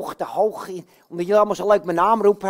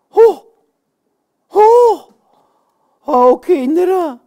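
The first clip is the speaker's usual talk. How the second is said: put-on high, loud cries to the children; excited exclamation; 9 semitones higher, 8 dB louder, much slower than usual. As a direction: burst out calling, then slow down. Uitroep bij gevonden zak. (opgewonden uitroepen)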